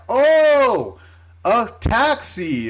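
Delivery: high, drawn-out dawning "oh"; mock realization. Her sudden understanding, acted out.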